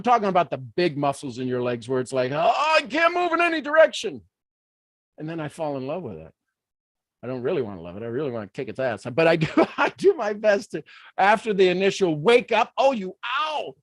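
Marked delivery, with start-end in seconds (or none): 2.3-4.2 mock pained groan. Acting cramp pain. 12.8-13.8 mock pained wince. Waking with a cramp.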